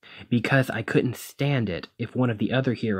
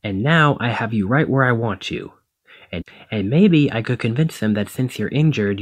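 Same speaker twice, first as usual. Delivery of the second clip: heated frustration; 4 dB louder than usual. Acted. Angry rant continues.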